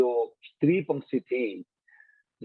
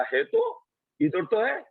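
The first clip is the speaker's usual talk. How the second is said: put-on high innocent little boy; child's voice; 10 semitones higher, slower than usual. Yama as a boy answering the queens, high childlike voice. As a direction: pipe it up like a small child. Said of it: "बच्चा बोल रहा".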